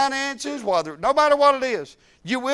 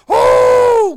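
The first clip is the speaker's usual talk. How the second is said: very high, loud held Oh; ecstatic cry; 14 dB louder than usual. Retold or imitated. Preacher retelling his joy after preaching, very high and loud. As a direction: let the joy burst out in one long note. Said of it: "I'm like".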